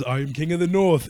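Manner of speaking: lightly imitated northern English declaration; Game of Thrones accent. Quoting a line from Game of Thrones, light accent imitation. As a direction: quote the show with a light put-on accent. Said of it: "fucking Game of Thrones is".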